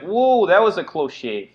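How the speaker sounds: slowed, high-pitched rogue quip; cocky thief. Acted. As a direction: play the thief who just dodged. GM voices dodging thief.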